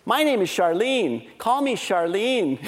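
slow, lightly voiced little girl announcing herself; imitating toddler daughter. Two-year-old renames herself to her parents, slow imitated insistence. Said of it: "she's two years old".

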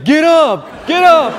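high, loud, desperate urging; retold high-pitched shout; imitating child's yell. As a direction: yell it high, as a kid cheering his player on. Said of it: "Jared is yelling".

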